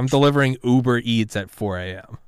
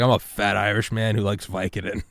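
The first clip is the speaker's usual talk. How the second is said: raspy cigarette voice. Retold or imitated. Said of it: "in his raspy cigarette voice".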